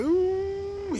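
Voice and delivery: put-on high, held child's Wolfman growl; bare the bottom teeth and growl like a kid playing the Wolfman; Lon Chaney Junior Wolfman. Small boy showing his nanny his Wolfman growl. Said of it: "trying to impersonate Lon Chaney Junior, the Wolfman".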